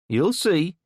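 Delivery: put-on ominous kid threat. A narrator's reading. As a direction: spit the warning back. Kid's parting threat.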